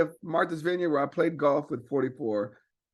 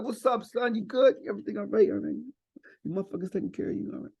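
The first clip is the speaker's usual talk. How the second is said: Obama impression; 4 semitones higher, faster than usual. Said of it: "exactly like what Key and Peele did".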